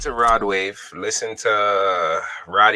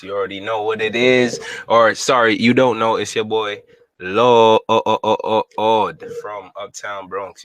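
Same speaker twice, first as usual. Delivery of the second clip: big hall echo; 4 dB louder than usual. Real, not acted. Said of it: "Sorry for the reverb".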